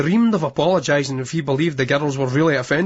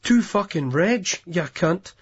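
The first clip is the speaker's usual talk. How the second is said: bad Scottish accent; slower than usual. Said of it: "in a bad Scottish accent".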